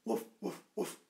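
playful barking; dog woof. Shown as a demonstration. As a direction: bark like a puppy. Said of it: "Let's do their sounds".

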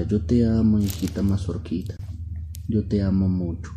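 a storyteller's fond papa, starting loud and easing; loving father. Acted. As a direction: dote on your little daughter. Father voiced declaring love to daughter.

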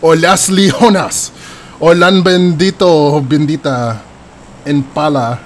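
hammed-up Spanish-accented place names; put-on accent. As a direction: savour each name in a Spanish-style accent. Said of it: "We should all talk in accents".

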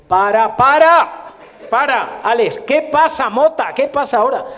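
high, loud, exasperated shouting; frantic halt. Acted. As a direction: stop the shoot with an urgent yell. Second acted halt and row. (gritos agudos de alto, exasperados)

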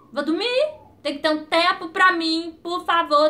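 imitating an insistent plea to a partner; mildly hammed-up pleading; retold plea. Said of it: "Eu falei, Fábio".

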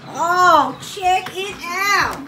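put-on playful voice for a child's toy; excited greeting. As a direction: hype up the new pony. Adult greets the toy pony.

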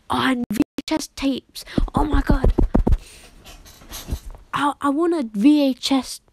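breathless excited whisper. Real, not acted. Gamer whispering in awe about VHS tapes. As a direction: whisper it like a secret treasure.

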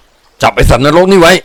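high, drawn-out bellowed order; angry command. A narrator's reading. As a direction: call out to your men to seize him. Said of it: "ตามคำสั่ง".

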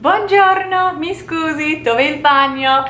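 bright, high, slow "Ciao, buongiorno"; tourist greeting. Pretend. Tourist walking in and asking for the bathroom, bright and high. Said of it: "you might say".

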